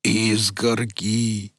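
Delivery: slow, drawn-out dazed voice; dazed simple voice. Acted. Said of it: "повторил Велес".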